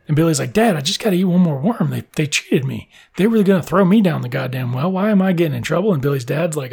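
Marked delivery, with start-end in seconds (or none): 0.5-5.9 higher-pitched complaint to a parent; mock pleading protest. Son protesting to dad that he was cheated, pleading. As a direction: plead the case, pitch climbing by the end.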